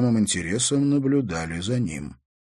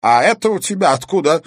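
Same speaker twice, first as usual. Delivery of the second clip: displeased; 10 semitones higher, 9 dB louder than usual. Acted. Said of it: "недовольно буркнул он".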